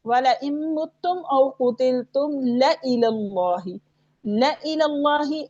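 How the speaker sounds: measured recitation, short "ला" in "ला इलल्लाहि"; silent-alif recitation. Shown as a demonstration. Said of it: "वक्फ की सूरत में भी नहीं पढ़ा जाएगा".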